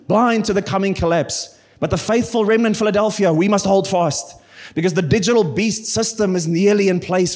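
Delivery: a hint of a conspiracy theorist ranting about end-time signs; mock conspiracy theorist. Preacher mocking a conspiracy theorist, half-hearted mock rant. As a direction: lightly play the tinfoil-hat reader. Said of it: "Let's go full, uh, conspiracy theory".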